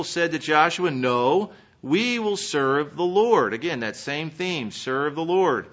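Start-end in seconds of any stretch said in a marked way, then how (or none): 0.9-3.5 slow, emphatic declaration of loyalty; emphatic vow. Retold or imitated. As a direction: declare it firmly, drawing out the words. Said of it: "The people are emphatic".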